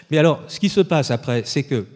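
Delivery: usual speaking voice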